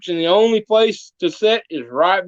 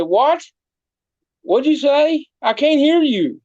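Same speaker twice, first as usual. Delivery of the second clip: higher, feigned confusion, pretending not to hear; mock playing deaf; 7 semitones higher, slower than usual. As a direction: play dumb like you can't hear a word. Goat plays deaf to preacher.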